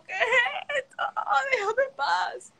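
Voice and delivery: high, slow, crying plea to be left alone; panicked cry. Retold or imitated. Attacked by a crow, she cries out in panic. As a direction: wail it like the crow is diving at you.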